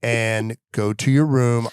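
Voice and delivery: low, slow mock-grave command; stern order. Dad sending son to his room, stern.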